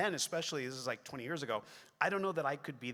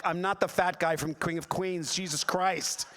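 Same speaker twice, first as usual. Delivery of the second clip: loud, slightly raised indignant retort; acted-out silent outburst of exasperation; exasperated inner voice; 3 semitones higher, 6 dB louder than usual. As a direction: protest it with comic indignation. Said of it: "And inside, I'm like".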